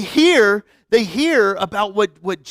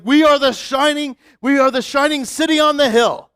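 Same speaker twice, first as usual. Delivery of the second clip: proud, raised boast of a shining city; mock-proud boasting, slightly higher; lightly voiced smug Jerusalem crowd; 5 semitones higher, 5 dB louder than usual. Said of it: "They're like".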